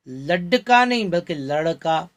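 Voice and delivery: लड़का with a light flapped ड़. Shown as a demonstration. Teacher showing light flap in लड़का. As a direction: tap the tongue lightly in लड़का. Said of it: "एकदम हल्के से उच्चारण होता है".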